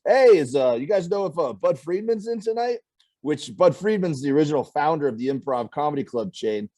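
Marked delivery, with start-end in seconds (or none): 0.0-2.8 put-on higher, eager old-timer asking around; a hint of a clueless old comic; old comic's voice. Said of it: "the guy goes".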